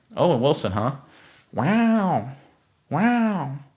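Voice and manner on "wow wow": each wow stretched out long and very high. Answering a viewer's comment with an Owen Wilson impression. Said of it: "It's my Owen Wilson impression".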